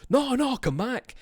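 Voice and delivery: high, loud pleading No, no, come back; hammed-up desperate comrade. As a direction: call the spirit back, pleading. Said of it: "one of his comrades was like".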